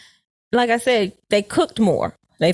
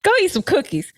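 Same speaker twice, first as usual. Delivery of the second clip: high, laughing jab; laughing tease; 11 semitones higher than usual. Real, not acted. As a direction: tease him through a laugh. Teasing through laughter.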